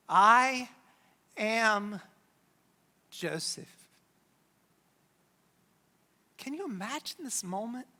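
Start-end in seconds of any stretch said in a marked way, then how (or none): 0.1-3.9 solemn reveal. Acted. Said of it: "says out loud".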